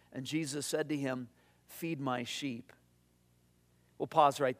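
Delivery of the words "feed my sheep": very soft, slow, lower voice; hushed charge. A narrator's reading. Jesus giving Peter his third charge, hushed. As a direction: let it sink low and quiet, unhurried.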